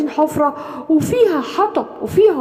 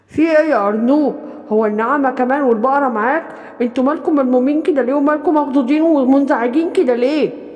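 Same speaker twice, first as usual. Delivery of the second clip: wolf. Acted. The wolf answers the animals.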